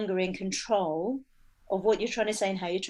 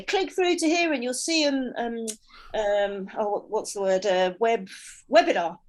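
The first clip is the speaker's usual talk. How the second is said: online seller voice. Retold or imitated. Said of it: "almost shouting at you the whole time".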